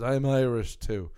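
put-on slow, thick American accent on an Irish claim; lightly exaggerated American accent, drawn out; thick American accent, imitated. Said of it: "in a, in a thick".

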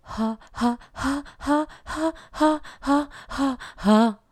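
airy detached notes on ja, sung up and down; breathy staccato. Shown as a demonstration. Teacher shows weak cord closure. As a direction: let air leak on each note. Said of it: "Sonaría más bien así".

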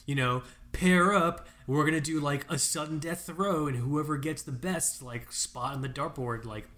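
a lightly voiced instructor explaining the game. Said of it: "The instructor's just like".

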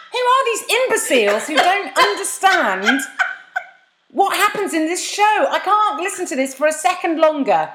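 hoog en traag, een gespeelde verontwaardigde luisteraar; mock listener rant. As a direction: laat de ergernis groot en langzaam klinken. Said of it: "shout at us while you're doing the washing up, going".

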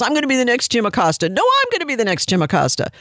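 a light mock of a reporter trying to be the next Jim Acosta; mock eager reporter. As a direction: mimic a reporter grabbing for the spotlight. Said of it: "make names for themselves".

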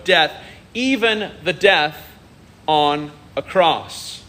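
slow, measured scripture reading; unhurried Bible reading from the pulpit. Acted. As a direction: read the passage with reverent weight. Reads scripture slowly.

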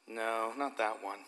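put-on small, slow, hushed child's no; soft childlike reply. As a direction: quietly imitate a little girl refusing. Child refusing, voiced by pastor.

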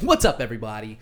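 upbeat radio DJ greeting; morning radio voice. Shown as a demonstration. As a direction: boom it out like a morning DJ. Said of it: "that's also a morning radio voice".

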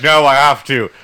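laughing through a mock insistent Jon Snow line.

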